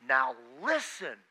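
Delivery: slow, weighty fatherly warning; stern dad warning. Retold or imitated. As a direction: lean on it like a dad about to lecture. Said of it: "a chair of your dad and he says".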